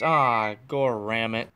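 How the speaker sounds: real annoyed outburst at a ringing phone; frustrated curse. Real, not acted. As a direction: snap it out, caught off guard. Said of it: "Yeah, sorry about that".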